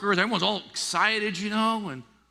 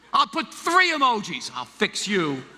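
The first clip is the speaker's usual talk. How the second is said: mock vengeful; 4 semitones higher, slower than usual. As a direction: gloat like a petty texter. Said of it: "angry and you can't take it".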